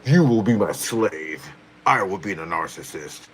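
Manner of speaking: slowed commanding villain voice; Roach voice. Pretend. Streamer continuing her Roach character voice to chat, mock menace. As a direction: lord it over them, hammed-up. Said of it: "that's my Roach impersonation".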